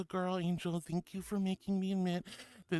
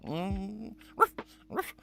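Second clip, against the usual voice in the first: puppy barks; 3 semitones higher, 3 dB louder than usual. Pretend. Streamer yipping like a puppy for chat. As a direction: yip like a little puppy. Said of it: "And I go".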